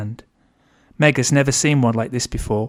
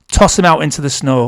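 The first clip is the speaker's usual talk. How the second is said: put-on louder, commanding old woman; barked order; 4 semitones higher, 6 dB louder than usual. A narrator's reading. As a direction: order him thrown out, loud and hard. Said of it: "orders Nana".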